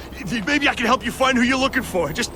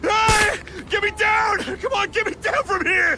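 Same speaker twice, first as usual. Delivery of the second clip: shouting for help; 8 semitones higher than usual. Acted. Thug hanging in web, calling.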